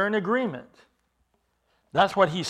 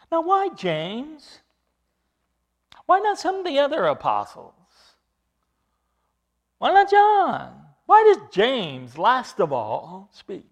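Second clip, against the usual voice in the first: rising, louder preacher's questions; preacher pressing each why; rhetorical questions; 7 semitones higher, 10 dB louder than usual. Real, not acted. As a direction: build the questions up with force.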